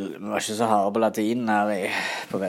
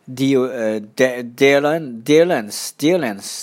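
straining for a name; 3 semitones higher, 6 dB louder, slower than usual. Real, not acted. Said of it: "en gul Rene Claude".

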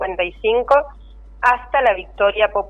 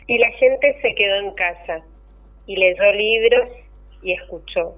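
poem reading. Acted. Poem read aloud on air.

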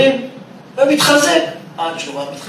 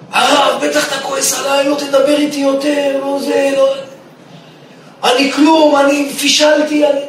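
imitating crying student; 5 semitones higher than usual. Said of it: "אני שומע אותו בוכה".

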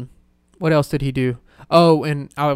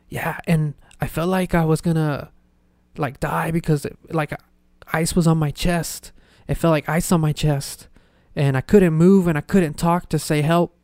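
breathy whispered grandpa voice; a weak, near-whispered retelling of his words; hushed impression of a frail old man; imitating grandpa; 2 semitones higher than usual.

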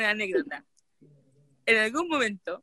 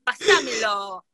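put-on Argentine accent, very drawn out; much slower than usual. Speaker asking her cousin during voice notes, imitated Argentine accent. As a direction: stretch it slowly like an Argentine. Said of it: "yo le hablaba así".

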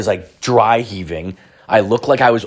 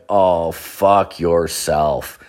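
slow, drawn-out sarcastic curse; fed-up curse; 3 semitones lower, much slower than usual. Retold or imitated. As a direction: drag it out, totally done with it. Reading bad news online.

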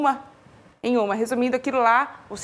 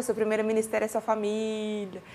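soft, low, motherly reminder; gentle motherly advice; 4 semitones lower, 8 dB quieter than usual. Retold or imitated. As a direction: say it like a caring mother. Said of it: "Minha mãe sempre fala pra mim".

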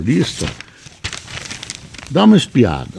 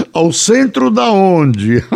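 incredulous; 9 semitones higher, slower than usual. Real, not acted. Mocking the headline.

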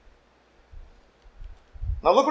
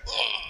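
disgusted groan; 11 dB quieter than usual. Retold or imitated. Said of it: "So you come into church, like".

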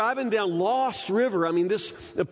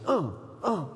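sleepy grunts. Retold or imitated. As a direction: grunt like someone dead asleep. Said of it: "She's just like".

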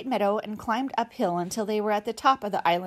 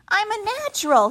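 high, louder proud squeak; squeaky boast; 11 semitones higher, 5 dB louder, faster than usual. Acted. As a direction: chirp it out proudly. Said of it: "he squeaked".

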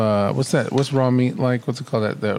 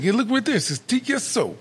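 insistent coworker; 9 semitones higher than usual. Retold or imitated. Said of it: "He's like".

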